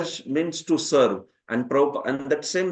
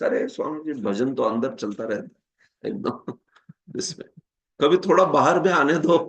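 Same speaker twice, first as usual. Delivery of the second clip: fast, teasing imitation of a layman; chatty imitation of a worldly man, sped up; mock worldly person teasing the swami; much faster than usual. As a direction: tease the monk like a busy householder. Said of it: "they talk like this".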